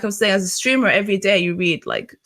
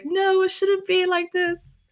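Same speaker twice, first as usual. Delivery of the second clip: retold tearful protest; 11 semitones higher, 4 dB quieter, slower than usual. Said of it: "I was, like, crying and really angry".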